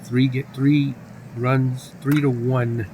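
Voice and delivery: measured sportscaster call; announcer keeping listeners on the action; baseball play-by-play. Pretend. Calls the baseball game live.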